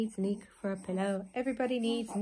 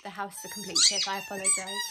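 squeaky mock apology; faster than usual. Joke voice apologising for mess.

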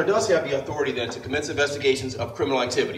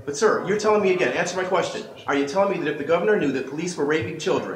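raised voice; 4 semitones higher than usual. Real, not acted. Man demanding an answer from a retreating official, raised voice. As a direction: press the official hard in a raised voice. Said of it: "Can you please stop yelling".

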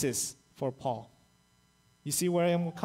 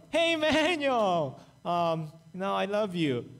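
loving greeting. Pretend. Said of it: "I'm hoping to hear".

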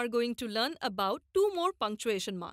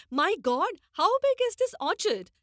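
put-on amazed city boy, higher and louder; child astonished at a giant orchard, pitched up; 5 semitones higher, 4 dB louder than usual. A narrator's reading. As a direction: exclaim in wonder at the huge orchard. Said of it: "is astonished by the sight".

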